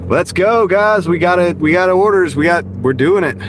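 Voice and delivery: high, loud hype-up; excited. Real, not acted. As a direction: pump yourself up to go. Hyping himself up to deliver.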